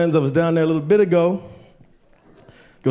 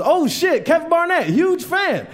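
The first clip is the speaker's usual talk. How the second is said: imitating excited fan; 12 semitones higher, slower than usual. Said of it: "he goes".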